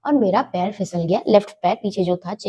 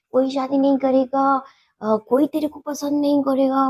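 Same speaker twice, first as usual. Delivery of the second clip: mocking taunt; 4 semitones higher than usual. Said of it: "मजाक उड़ाने लग गया".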